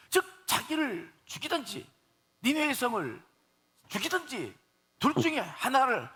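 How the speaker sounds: high-pitched, exclaimed ultimatum to God; mock defiant shouting. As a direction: act out Jonah shouting his demand. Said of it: "소리쳐놓고서는". (하나님께 따지듯 높게 외치는 흉내)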